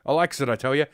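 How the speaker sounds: put-on folksy old codger; yokel voice. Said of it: "I like drinking and smoking".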